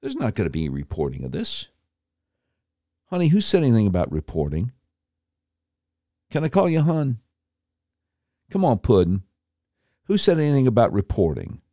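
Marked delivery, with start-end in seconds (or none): 3.1-11.6 condescending. Acted. Condescending terms of endearment.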